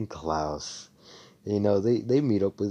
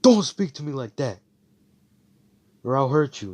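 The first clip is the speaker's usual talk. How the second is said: higher, louder angry warning; angry threat; 6 semitones higher, 7 dB louder than usual. Retold or imitated. Klaus warning Asta's friend not to talk back, loud angry threat. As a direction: shout the threat at him. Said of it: "And Klaus is like".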